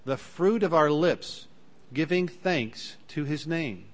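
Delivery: solemn Bible reading; scripture reading. Acted.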